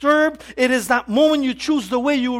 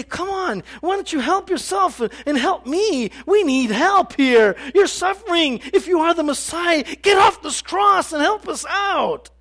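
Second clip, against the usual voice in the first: higher, jeering shout at the end; mocking taunt; 5 semitones higher than usual. The first thief taunting Jesus from the cross, mocking shout. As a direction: sneer it up at him, taunting. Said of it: "insulting and laughing and mocking him".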